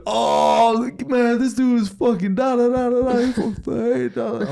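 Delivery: high, loud, laughing babble; laughing crowd. Retold or imitated. Gym crowd laughing at his green outfit, high laughing babble. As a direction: mimic the gym cracking up.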